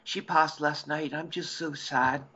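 Timmy voice. Retold or imitated. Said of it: "He goes".

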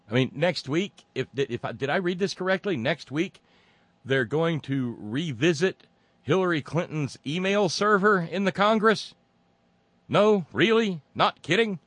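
high, rising disbelief; incredulous. Pretend. Host reacting to Congress revisiting Clinton's emails, incredulous. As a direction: question it in mock astonishment, pitch climbing.

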